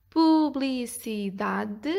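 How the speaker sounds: very slow, separated syllables; evenly broken up for counting. Shown as a demonstration. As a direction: sound the word out piece by piece. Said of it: "cinco sílabas".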